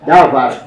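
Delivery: davar said loud with VAR stressed; stress on last syllable. Shown as a demonstration. Teacher correcting how davar is said, last syllable stressed. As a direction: put the weight on the end of davar. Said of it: "désigner la dernière syllabe var".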